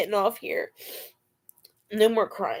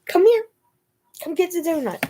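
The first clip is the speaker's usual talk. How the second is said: coaxing call; 8 semitones higher than usual. Real, not acted. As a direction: lure the dog in high. Calling dog for donut.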